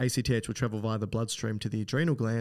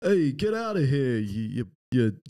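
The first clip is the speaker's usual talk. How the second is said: attempted Boston accent; 4 dB louder than usual. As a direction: bark out a badly faked Boston accent.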